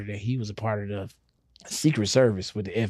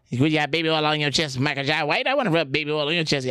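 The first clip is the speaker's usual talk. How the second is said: higher-pitched silly character; cartoon voice; 5 semitones higher, faster than usual. Comedian performs his cartoon for the boss, silly voice. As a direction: put on a pitched-up cartoon impression. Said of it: "I'm gonna do the voice".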